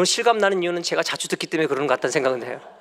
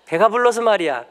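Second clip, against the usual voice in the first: scolding parent; 5 semitones higher, 5 dB louder than usual. Retold or imitated. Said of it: "막 야단치면".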